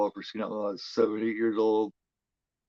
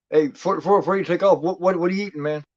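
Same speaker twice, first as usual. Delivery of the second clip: loud calling out; 8 semitones higher, 9 dB louder than usual. Real, not acted. Calling out to chatter.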